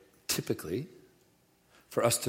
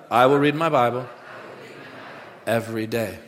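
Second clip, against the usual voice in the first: firm, raised-voice pledge; louder declaration; 4 dB louder than usual. Shown as a demonstration. Preacher leading the congregation's last repeat, louder declaration. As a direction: declare it loudly for all to repeat.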